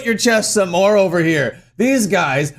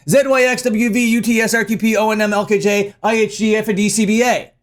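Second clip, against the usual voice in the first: rapid alphabet recitation. Shown as a demonstration. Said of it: "do it right now real quick".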